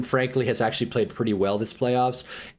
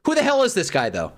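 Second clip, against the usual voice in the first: outraged; 5 semitones higher than usual. Real, not acted. Fan ranting at the screen, high incredulous yell. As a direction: demand an answer in disbelief.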